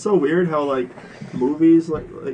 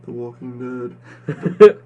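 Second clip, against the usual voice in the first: movie trailer voice; 6 dB louder, slower than usual. Pretend. Mock trailer announcement.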